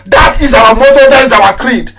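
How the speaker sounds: loud, high declaration of the motto; proud shout to his followers; shouted creed. Real, not acted. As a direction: bellow it as a rallying cry.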